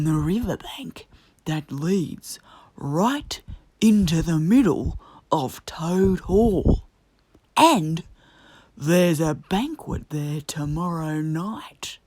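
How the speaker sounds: slow hushed whisper; whispered secret. A narrator's reading. Badger revealing the secret passage to Toad, whispering. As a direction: whisper it like a conspirator.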